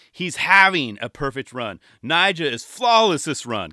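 loud slow mock commentator call; commentator praise. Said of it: "start mixing in".

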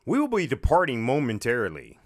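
lightly voiced automated announcer; a hint of pompous recording; recorded train announcement. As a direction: imitate a canned departure announcement. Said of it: "I memorized the recording that they had".

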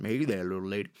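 a Texas cop greeting a woman; mock Texas cop; Texas accent. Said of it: "and my accent is like".

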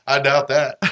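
dry, flat-toned delivery of "I doubt that"; deadpan. Retold or imitated. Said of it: "looks at him deadpan".

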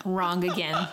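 teasing whisper. Pretend. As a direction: hush it out like a tease. Teasing reply to co-host.

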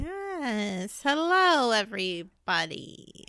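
slow, singsong hello to the audience; drawn-out greeting. Real, not acted. Co-host greets listeners as the show opens, drawn-out greeting. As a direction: stretch out the greeting, rising then sinking.

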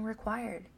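"required" set out firmly as the key word; emphasis on "required". Real, not acted. Preacher insisting it is no mere request, emphasis on "required". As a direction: put the weight on "required". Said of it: "draw emphasis on the word require".

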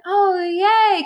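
mock-naive high squeal; high excited squeal. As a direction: gush it like a clueless girl. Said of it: "And she's like".

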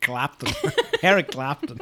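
giggling echo. Real, not acted. Laughing, echoing the odd pronunciation.

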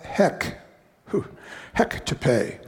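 whispered "heck to pay"; sheepish whispered aside; hushed self-correction. Real, not acted. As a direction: whisper it so the swear stays unsaid. Self-censoring a near-swear.

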